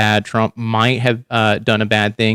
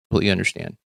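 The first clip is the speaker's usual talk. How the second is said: softer, lower, reassuring reply; gentle reassurance; 6 semitones lower, 5 dB quieter, much faster than usual. Retold or imitated. Telling an unsure coworker it's okay, soft and reassuring. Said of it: "I would be like".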